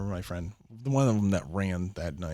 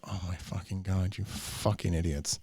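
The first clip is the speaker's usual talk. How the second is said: exasperated; 4 semitones lower, 4 dB quieter, slower than usual. Retold or imitated. Reacting to friends' drugs.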